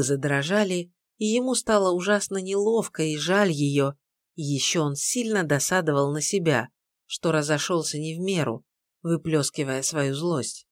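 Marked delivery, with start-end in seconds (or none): none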